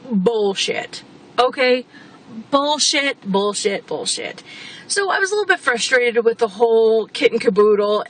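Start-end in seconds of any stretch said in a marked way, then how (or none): 0.1-4.4 repeated bullshit. Real, not acted. Ranting at the installer's claim.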